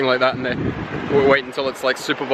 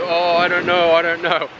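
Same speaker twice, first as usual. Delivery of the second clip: helpless confusion; 5 semitones higher than usual. Retold or imitated. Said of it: "I was like".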